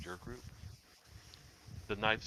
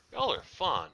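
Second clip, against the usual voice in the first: creepy Kenku; 8 semitones higher, 7 dB louder than usual. Acted. DM voices the Kenku.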